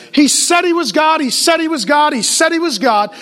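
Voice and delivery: forceful, rising repetition of a key claim; emphatic declaration. Real, not acted. Preacher drilling a truth into the congregation, emphatic.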